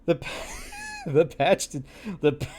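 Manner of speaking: breaking up mid-word; fighting off the giggles; laughing. Real, not acted. Cracking up rereading the odd phrase, laughing.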